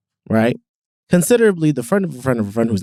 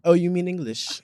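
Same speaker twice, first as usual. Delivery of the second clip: higher, softer mimicry; teasing soft imitation, pitched up; mimicking co-host; 6 semitones higher, 6 dB quieter than usual. Mimicking co-host, then asked to repeat.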